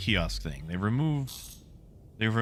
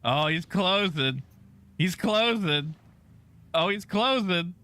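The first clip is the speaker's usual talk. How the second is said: higher, rising alarm at each call; excited alarm; 5 semitones higher than usual. Real, not acted. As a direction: call out the danger, keyed up. Enemy ship approaching fast.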